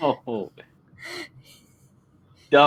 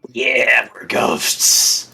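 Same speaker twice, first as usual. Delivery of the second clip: whisper; 4 dB louder, much slower than usual. Acted. Playing ghosts, whispering.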